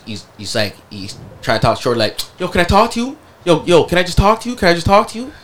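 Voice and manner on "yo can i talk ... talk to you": higher, a light whiny plea; mock pleading boyfriend. Imitating the boyfriend begging his girl, higher pitched. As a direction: play the guy begging to talk.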